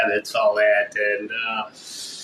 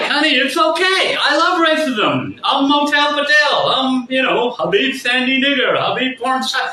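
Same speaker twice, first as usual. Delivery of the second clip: sarcastic retort; 8 semitones higher than usual. Retold or imitated. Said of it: "and I'm like".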